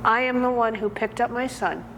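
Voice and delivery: halting, emotional confession with long pauses; acted defiance, pitch jumping then falling; defiant prisoner's monologue. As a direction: play a mother insisting, with long silences between phrases. Prisoner's climax, saved her baby herself.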